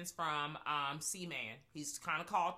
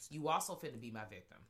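Candyman voice; 2 semitones lower than usual. Retold or imitated. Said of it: "And was just like".

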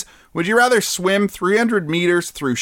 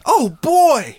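put-on high cute anime girl; 10 semitones higher, 4 dB louder than usual. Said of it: "work on my anime voice".

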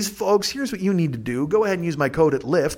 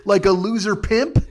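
mock loser pitch; 4 semitones higher than usual. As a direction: pitch yourself like a sad salesman. Mock self-pitying email.

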